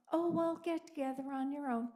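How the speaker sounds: fast, mock-breezy brush-off; mock dismissive. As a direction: toss it off fast, mocking them. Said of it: "overboard sarcastic".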